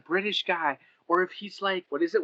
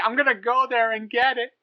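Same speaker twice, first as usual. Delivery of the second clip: mimicking a friend; 9 semitones higher, 3 dB louder than usual. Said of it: "She's like".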